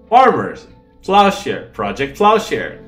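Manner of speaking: loud delighted exclamation; excited. Real, not acted. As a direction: announce the pun with glee. Excited realization of name pun.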